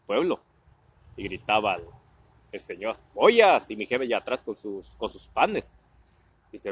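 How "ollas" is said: loud drawn-out hawker's call; street vendor's cry. Retold or imitated. Pot seller crying his wares through the village, loud. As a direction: sell your pots to the whole street.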